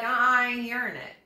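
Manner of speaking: fast, dismissive brush-off; sassy refusal. Retold or imitated. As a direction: wave him off with attitude. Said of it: "you're like".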